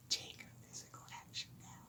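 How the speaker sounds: soft, gentle whisper. After yelling at viewers, urging them again with the soft approach. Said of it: "I'll try the soft approach".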